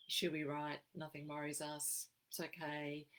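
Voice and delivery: imitating a flat, unbothered Aussie monotone. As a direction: say it evenly, nothing worries us. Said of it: "flat tone of voice, monotonous tone of voice".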